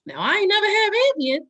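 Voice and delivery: high, loud laugh-through; laughing emphasis. Real, not acted. Warning her cohost about Ambien, laughing high. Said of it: "laughing retelling".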